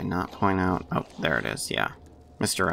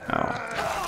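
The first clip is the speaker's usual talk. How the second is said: a sudden high breathy oh of surprise; surprised oh. Real, not acted. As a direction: caught off guard mid-sentence. Player suddenly notices something in game.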